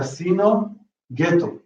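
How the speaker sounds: "Casino" stressed on SI, "ghetto" on GHE; penultimate stress. Shown as a demonstration. Teacher showing vowel-final rule, "Casino, ghetto" with penultimate stress. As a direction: hit the next-to-last syllable in "Casino" and "ghetto". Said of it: "you get penultimate stress".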